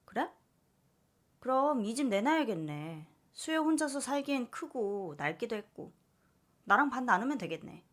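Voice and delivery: mother pushing to split the money; lightly voiced scheming mother; greedy mother. Mother proposes selling the house.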